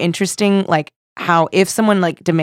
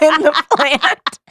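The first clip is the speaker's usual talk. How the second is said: laughing while telling; 9 semitones higher, much slower than usual. Real, not acted. Laughing at the plant-face prank.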